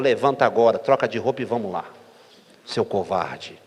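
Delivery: a low, commanding wife barking orders; retold wife calling her husband a coward, low and firm; stern wife's order. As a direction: drop the voice and order him up like a no-nonsense wife.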